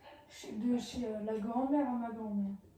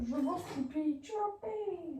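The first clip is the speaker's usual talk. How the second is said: put-on childish voice; 5 semitones higher, slower than usual. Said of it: "Ah, je rigole".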